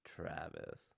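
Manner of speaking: ordinary delivery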